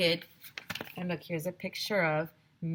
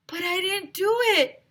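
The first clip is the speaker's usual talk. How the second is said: much higher, pleading protest; 13 semitones higher, 4 dB louder than usual. A narrator's reading. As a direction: insist you're innocent. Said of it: "Mister Klutz protested".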